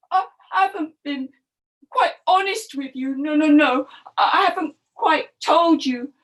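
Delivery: lightly acted, flustered crocodile; confessing crocodile. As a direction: stumble reluctantly toward the truth.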